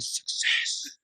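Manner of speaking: hushed, breathless whisper; whispered success. Retold or imitated. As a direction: whisper it in relief. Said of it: "you're like".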